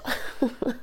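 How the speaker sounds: quiet airy chuckle at herself; soft breathy laugh. Real, not acted. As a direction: laugh softly under the breath. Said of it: "je rigole". (petit rire soufflé)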